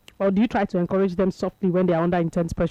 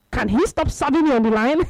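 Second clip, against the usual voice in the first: mock exasperation, pitched up; frustrated complaint; 4 semitones higher, 3 dB louder than usual. Tennis player complaining to his wife about serves, mock frustration. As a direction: imitate a player griping in frustration. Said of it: "he dey frustrated".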